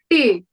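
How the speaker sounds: te said crisp, dental t, flat vowel; Hindi letter te. Shown as a demonstration. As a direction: say te with tongue on teeth. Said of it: "This alphabet is called te".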